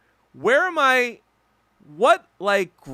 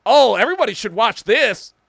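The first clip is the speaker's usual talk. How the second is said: mocking white comrades; 5 semitones higher, 7 dB louder than usual. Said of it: "they're like".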